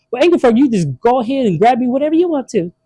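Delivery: put-on high, lightly accented pitch-woman; a hammed-up accented saleswoman; mock Asian lady. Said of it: "an Asian lady".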